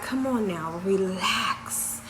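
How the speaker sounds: soft, low coaxing; calm a nervous patient, softly and low; gentle imitation of a reassuring nurse; retold soothing. Nurses calming her, retold.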